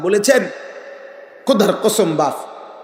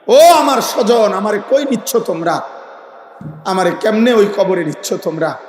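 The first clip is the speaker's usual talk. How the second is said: dead sinner wailing to relatives, acted out; imitated pleading cry; 3 semitones higher than usual. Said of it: "এত জোরে চিৎকার করে আর বলে". (লাশের আর্তচিৎকারের অভিনয়)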